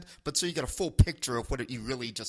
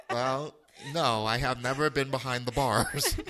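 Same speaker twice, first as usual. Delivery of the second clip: 1 laughing; 3 dB louder than usual. Retold or imitated. Mocking his phrase, laughing.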